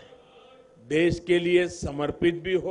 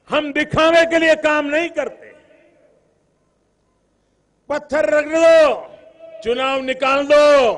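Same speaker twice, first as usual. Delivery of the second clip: shouting rally speech; 3 semitones higher, 5 dB louder than usual. Real, not acted. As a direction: whip up the crowd. Rally crowd, rising attack on rivals.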